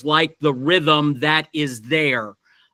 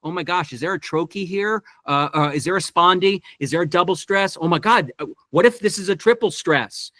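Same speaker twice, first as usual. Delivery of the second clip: excited inner voice; faster than usual. Retold or imitated. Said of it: "that seems to be great fodder for".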